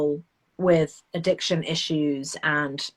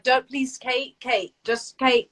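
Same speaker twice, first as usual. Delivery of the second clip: higher, imitated plea to stop; mock pleading; 6 semitones higher, slower than usual. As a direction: plead in vain, as others do to her. People trying to stop her.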